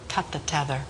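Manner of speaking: low, hushed retold command; director's tense order. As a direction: give the order low and quiet. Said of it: "Sidney was going crazy".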